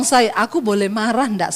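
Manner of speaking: lightly voiced mild husband; understated, polite little request; patient husband. Husband asks wife's permission for anger, mildly patient. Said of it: "luar biasa saudara sabarnya".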